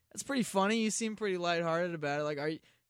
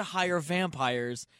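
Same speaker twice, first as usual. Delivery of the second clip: slow; 3 semitones lower, much slower than usual. Acted. Slow comic reveal.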